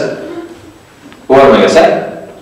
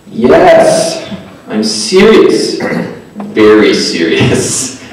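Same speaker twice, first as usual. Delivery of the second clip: emphatic insistence; much slower than usual. Retold or imitated. Retold insistence to doubting friend.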